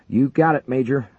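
high, loud reply. A narrator's reading. Gunner answering the major, loud and high. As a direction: shout back a quick yes. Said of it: "Oakes replied".

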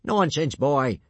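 loud, brusque dismissal; impatient snap. A narrator's reading. Gobber dismissing Hiccup's fright, impatient snap. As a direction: snap at the boy loudly. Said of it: "snapped Gobber the Belch".

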